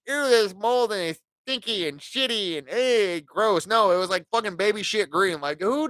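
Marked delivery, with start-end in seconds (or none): 0.1-3.7 a light, hammed-up "ew, gross"; mock squeamish disgust. Mocking a squeamish reaction to moldy tiles, light mock disgust. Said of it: "Not like in, like".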